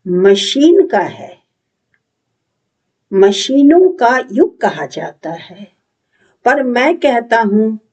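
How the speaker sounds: measured declamation with lifted phrases and falling ends; lightly theatrical, resolute recitation with long pauses; dramatic monologue. Acted. Patriotic, thoughtful youth affirms his humanity, dramatic monologue.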